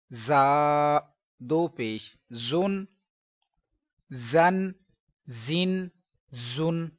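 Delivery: slow drill with a sharp hissing z; sharp whistling zoye. Shown as a demonstration. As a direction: hiss the zoye hard like a whistle. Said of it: "सीटी की तरह की तेज़ आवाज़ निकालेंगे".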